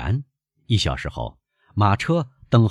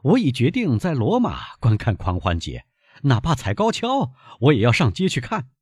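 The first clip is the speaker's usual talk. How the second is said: a bit raised, higher, insisting; loud declaration; 7 semitones higher than usual. A narrator's reading. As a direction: firmly announce the plan. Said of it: "阿尔贝高声地说". (阿尔贝稍稍提高嗓门坚决地说)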